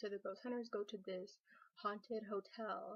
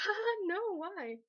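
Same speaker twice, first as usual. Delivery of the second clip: high, loud put-on laugh into the words; imitated mocking laugh; 9 semitones higher, 6 dB louder, slower than usual. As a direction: mimic the lady laughing it off. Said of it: "she, like, laughed at me".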